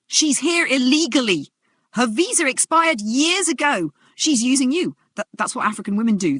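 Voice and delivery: screaming accusation. Acted. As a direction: hurl it at the crowd. Restrained man screaming accusations.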